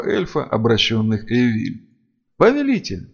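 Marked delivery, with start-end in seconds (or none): 2.4-3.1 greedy vampire. A narrator's reading. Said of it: "жадно облизнулся один".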